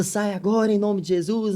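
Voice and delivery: high-pitched imitation of a Pentecostal exorcism cry; half-voiced mock deliverance command; mock Pentecostal shouting. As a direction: mimic a believer casting out a demon, without full volume. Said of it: "eu gritando, né, com aquele, aqueles crentes pentecostal".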